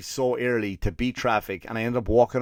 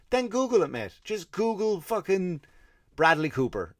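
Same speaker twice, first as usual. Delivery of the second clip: exasperated retort; 9 semitones higher than usual. Retold or imitated. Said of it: "I'm like".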